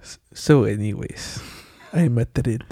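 a hushed, stumbling Seinfeld. Pretend. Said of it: "you read it in that voice".

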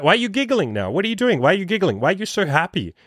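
high-pitched playful teasing; goofy, silly. Retold or imitated. Teasing a girl who starts giggling, goofy and silly. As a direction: pile up mock-puzzled questions in a high voice. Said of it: "kind of this, like, goofy, silly thing".

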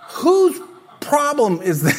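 slow, amused question; laughing. Real, not acted. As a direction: laugh through it.

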